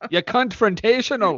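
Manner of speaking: "confrontational" high, first syllable heavily punched; mock mispronunciation. Repeating her word for laughs, "confrontational" with first syllable exaggerated. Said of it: "What did she call him?".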